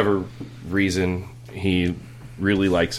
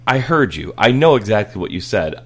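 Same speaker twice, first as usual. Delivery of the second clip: louder, knowing warning; firm dad; 2 semitones higher, 5 dB louder than usual. Retold or imitated. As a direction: call his bluff firmly. Dad scolding son.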